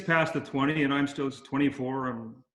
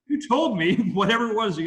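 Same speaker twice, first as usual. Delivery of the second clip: laughing protest; 8 semitones higher, 6 dB louder than usual. Retold or imitated. Narrator defending himself to Ted.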